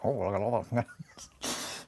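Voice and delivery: slow, soft retold Mister Bean; lightly imitating wife's slow Mister Bean; Mister Bean impression. Streamer retells Kelly doing Mister Bean, slowly. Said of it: "she did the whole thing".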